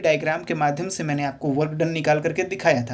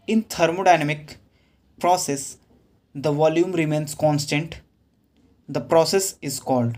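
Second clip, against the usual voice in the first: reads the question word by word, very slow; slow question reading; much slower than usual. Acted. Teacher reading an exam question to students, slow dictation. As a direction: dictate the question slowly so students can follow.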